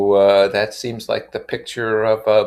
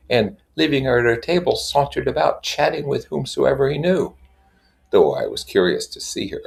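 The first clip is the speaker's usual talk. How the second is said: measured literary reading voice; story narration. A narrator's reading. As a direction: read it like an audiobook. Reading Gatsby aloud.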